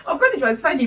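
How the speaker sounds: cracking up at the memory; laughing. Real, not acted.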